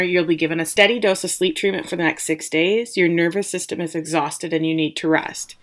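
retold with calm, measured reassurance; understated, steady bedside calm; calm doctor. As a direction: lightly voice a calm doctor instructing a patient. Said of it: "he's very calm".

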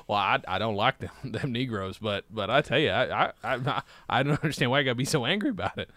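lightly voiced, low, halting old-time politician; a hint of a rambling Southern politician; mock Southern politician. Strom Thurmond figure questioning the anger, lightly voiced.

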